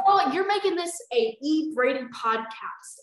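loud, slow mock fury; exasperated scolding. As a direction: scold the character at full exasperation.

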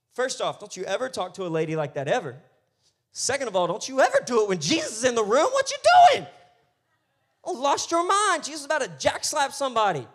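loud comic scolding that shoots up high; hammed-up, high-pitched indignant rant; outraged telling-off. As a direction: tear into them in mock outrage.

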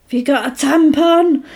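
mock catty. Voicing Jennifer taunting Needy, high and snide. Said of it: "she's like".

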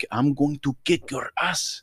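mock threat in a broken-English accent; imitated broken-English threat. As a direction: mimic a grandfather's confident broken English. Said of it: "just the way you say that".

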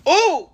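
high, loud exclaimed ooh; imitated ooh. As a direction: let out a sudden high ooh. Imitates own reaction to hard times.

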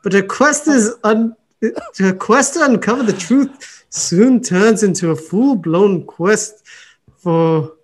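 playful attempt at an Irish accent. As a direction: read it out in a put-on lilting Irish voice. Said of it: "do it in an Irish voice for us".

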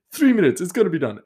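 put-on high, loud accent of no clear origin; hammed-up African-ish accent; muddled foreign accent. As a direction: insist to the chef in a garbled mock accent. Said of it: "we're just going with it".

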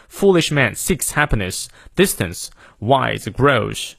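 each of "Foolish man seeks happiness" given full stress; full weight on "distance", "wise", "grows"; stressed content words. Shown as a demonstration. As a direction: stress every word, "Foolish" through "grows". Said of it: "这些都重读".

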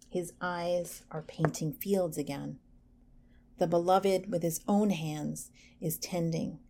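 lightly voiced, measured poetry reading; poem reading. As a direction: read the Hafez poem gently and evenly. Reads a Hafez poem.

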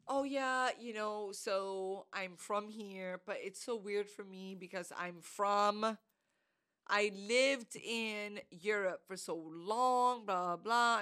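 slow, measured retelling of her words; unhurried, lightly mimicked small talk; imitated casual stranger. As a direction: draw it out as she said it. Other woman's words, corrected version.

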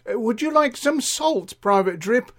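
high-pitched eager offer; sing-song high voice of an attentive server; fussing Doris. Acted. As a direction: pipe up sweetly to interrupt, pitch way up. Doris fussing over Private Drip.

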